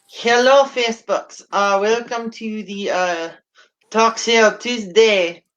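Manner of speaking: put-on slow, hammy Russian accent, drawn out; a hint of a badly faked Russian accent. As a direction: open the show in a clumsy fake Russian accent. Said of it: "a really bad Russian accent".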